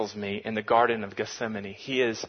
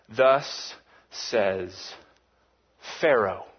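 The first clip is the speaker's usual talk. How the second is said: lower, drawn-out "Thus"; a hint of a grand villain; mock pompous Pharaoh; 3 semitones lower, much slower than usual. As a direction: parody the formula with pomp. Mocking Pharaoh's counterfeit formula.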